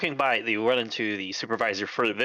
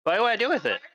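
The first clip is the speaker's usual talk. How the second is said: worker on the phone; 8 semitones higher, faster than usual. Acted.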